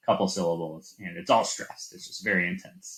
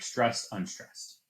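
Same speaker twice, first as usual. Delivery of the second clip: slow "Stressed, unstressed", weight falling on the first word; trochaic stress demo; 2 semitones higher, 5 dB quieter, slower than usual. Shown as a demonstration. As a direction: let "unstressed" drop away after "Stressed". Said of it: "that's just the opposite".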